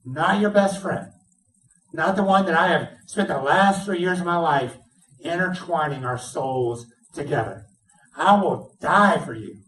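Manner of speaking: lightly voiced Peter, pitch lifted as he promises; Peter's boast. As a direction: swear it like a proud friend. Preacher voices Peter's loyal boast.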